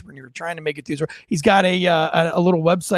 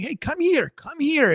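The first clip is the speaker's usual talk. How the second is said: retold yelling; 8 semitones higher than usual. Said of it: "I'm yelling".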